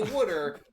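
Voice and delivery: water as "wooder"; Philly pronunciation. Shown as a demonstration. Co-host saying how he speaks at home, Philly "wooder" for water. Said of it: "I will always say water".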